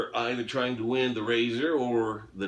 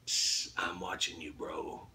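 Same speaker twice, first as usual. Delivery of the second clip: hushed mock whisper, lower and softer; imitated whisper; 5 semitones lower, 7 dB quieter than usual. Host imitating the contest's sound-effect guy, imitated whisper. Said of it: "and he's whispering".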